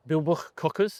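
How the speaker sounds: attempted Welsh accent on the name. Shown as a demonstration. Trainer names the camp's Welsh venue, attempting a Welsh accent. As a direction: say it with a touch of Welsh. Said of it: "That's a good Welsh accent there".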